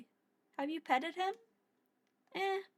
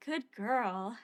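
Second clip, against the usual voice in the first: laughing retake. Real, not acted.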